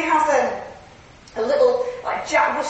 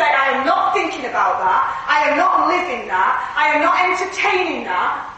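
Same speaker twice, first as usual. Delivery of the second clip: firm, emphatic declarations; authoritative. Shown as a demonstration. Preacher showing church how to refuse the enemy, firm. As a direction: stand your ground with each refusal. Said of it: "we need to exercise our authority".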